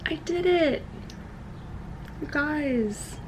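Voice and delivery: high-pitched, pleased little celebration; triumphant announcement. Real, not acted. Vlogger back from showering tells viewers, high and triumphant.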